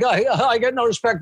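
quick, light take on a famous comic's whine; Rodney Dangerfield impression. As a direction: toss off the catchphrase fast, half-laughing. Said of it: "I could switch into a Rodney Dangerfield voice".

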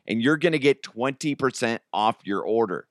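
ordinary talk

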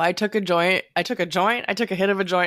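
strained, holding smoke in; holding in a cough. Real, not acted. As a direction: talk while holding back a cough. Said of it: "trying not to cough".

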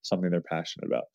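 measured, even read-aloud delivery; story reading. Acted. Man reading out a babysitter's account of a neighbor girl, story reading. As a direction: read a personal story aloud, steady and sincere.

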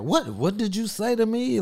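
high, offended rising question; mock outraged what. Retelling a gay man's offended reply, high mock outrage. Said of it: "They'd be like".

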